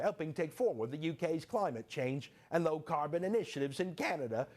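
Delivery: light mock British accent on the letter. Host reading UK letter aloud, mock British accent. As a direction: read it like a prim British official, lightly. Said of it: "let me do it in an accent".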